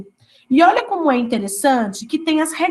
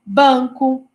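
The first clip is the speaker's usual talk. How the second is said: slow example. Shown as a demonstration. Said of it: "como aí".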